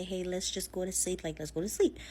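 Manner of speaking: mild retold reassurance, understated; calming. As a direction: soothe him toward sleep. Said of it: "she tries to calm him down".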